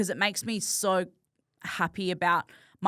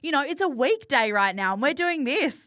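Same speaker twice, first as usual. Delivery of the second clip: higher, bubbly gushing about a cool life; excited gushing; 5 semitones higher than usual. Retold or imitated. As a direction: gush like you can't believe your luck. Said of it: "being like".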